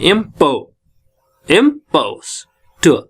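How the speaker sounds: पो in इम्पो- given deliberate weight; इम्पोस्ट- broken up around a stressed पो. Shown as a demonstration. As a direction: lean on the second syllable of इम्पोस्ट-. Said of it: "प को हम बहुत stress दे रहे हैं".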